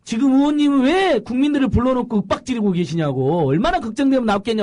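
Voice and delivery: retold protest, high and loud; 끼어들어 항의. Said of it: "제가 끼어들었죠". (높고 큰 목소리로 따지듯 재연)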